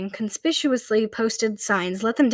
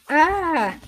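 groan; 6 semitones higher than usual. Acted. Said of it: "someone groaned in distress".

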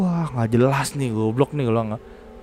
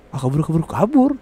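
higher and louder with each "kabur", urging everyone off; panicked call to run; 6 semitones higher, 4 dB louder than usual. Retold or imitated. To his four friends as the figure stares back, panicked mock yell to flee. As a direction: yell it like you're already running.

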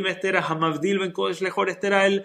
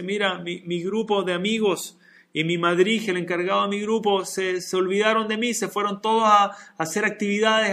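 put-on higher, upset child's voice; upset little boy; 4 semitones higher, 4 dB louder than usual. Left-out little boy complains to the rabbi, higher upset child voice.

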